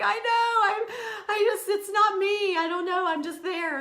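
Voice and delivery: high, teary and loud; tearful. Real, not acted. Tearful reply to husband's praise. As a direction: choke up while brushing it off. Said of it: "I start crying".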